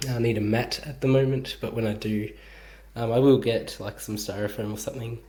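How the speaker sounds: breathless from moving heavy stuff; talking between breaths. Real, not acted. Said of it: "sorry for the shortness of breath".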